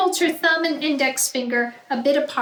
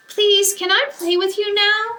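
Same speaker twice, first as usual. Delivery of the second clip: high pleading little voice; pleading child; 9 semitones higher, 4 dB louder than usual. Acted. Lulu begging her brother to join, high pleading. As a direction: beg your big brother to let you play. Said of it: "she asks".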